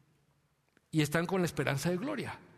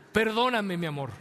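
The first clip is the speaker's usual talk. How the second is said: pleading apology; 4 semitones higher, 4 dB louder than usual. Retold or imitated. Mock husband apology.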